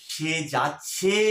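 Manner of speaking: যাচ্ছে stretched slowly on its last syllable; drawn-out verb ending. Shown as a demonstration. Teacher showing students the changed verb form, যাচ্ছে drawn out slowly. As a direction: draw out the end of যাচ্ছে. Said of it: "এই যে উচ্চারণটা পাল্টে গেল".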